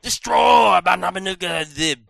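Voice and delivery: dramatic trailer voice read; trailer narration. Acted. Reading box blurb trailer style.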